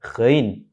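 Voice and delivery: ghain with a buzzing gh, falling at the end; GHAIN with throaty gh. Shown as a demonstration. Teacher repeating the correct letter, ghain with throaty gh. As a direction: vibrate the upper throat on ghain. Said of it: "ada semacam vibrasinya".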